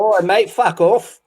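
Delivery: slow, exaggerated movie Cockney; Cockney accent. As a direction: play a movie Cockney thug, drawn out. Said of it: "are definitely movie accents".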